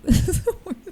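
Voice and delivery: very high mock-crying squeak; retold tearful whine. Customer at the bag check, retold tearful whine. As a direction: whimper it high, playing up the tears. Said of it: "now I'm starting to tear up".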